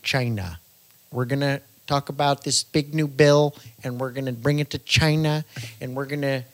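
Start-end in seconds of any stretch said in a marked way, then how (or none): 1.1-6.4 Donald Trump impression. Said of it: "Donald Trump".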